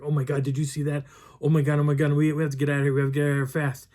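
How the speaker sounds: urgent, rattled-off mock alarm; retold panic. Fleeing couple to the hiker on the trail, mock panic. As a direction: act out hikers desperate to get away.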